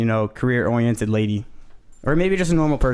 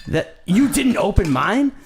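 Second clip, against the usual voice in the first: surprised; 7 semitones higher, slower than usual. Real, not acted. Realizes friend skipped his beer.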